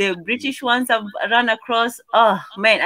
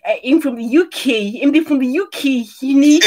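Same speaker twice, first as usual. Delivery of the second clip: mock UK-Nigerian accent; 3 semitones higher than usual. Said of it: "come back and they talk to you".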